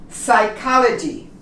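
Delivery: Psychology said with no P sound, starting on S; silent P. Shown as a demonstration. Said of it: "We don't pronounce the P".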